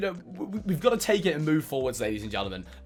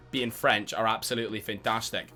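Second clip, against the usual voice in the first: put-on a light, passing Scottish accent; 3 semitones lower, 3 dB quieter than usual. FIFA streamer slips into a lightly Scottish accent. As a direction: slip briefly into a Scottish accent. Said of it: "went into a Scottish accent".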